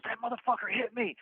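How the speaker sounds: high-pitched mock indignant accusation; acted complaint. Attacker complaining to the bunkmate, mock indignant.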